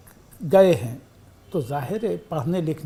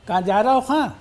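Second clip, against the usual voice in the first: कहाँ जा रहे हो खां with खां stretched at the end, a bit louder; Bhopali lilt; 4 semitones higher, 4 dB louder, faster than usual. Shown as a demonstration. Bhopali man casually asking a friend where he's going, with a lilt. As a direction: ask it like a Bhopali local, leaning on खां. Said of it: "उसको दूसरे ढंग से कहता है".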